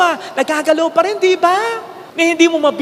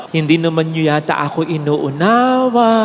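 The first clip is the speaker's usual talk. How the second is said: sad, hurt tone; 8 semitones lower than usual. Retold or imitated. Priest repeating his words to the crowd, hurt. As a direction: sound let down, not angry. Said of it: "Ganun ang tono".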